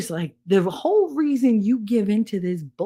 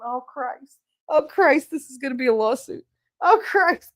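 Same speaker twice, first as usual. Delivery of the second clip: imitated worried boss; 6 semitones higher, 3 dB louder than usual. Boss dreading lawsuit.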